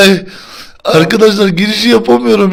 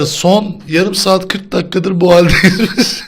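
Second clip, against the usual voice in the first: laughing. Real, not acted. Still laughing while explaining.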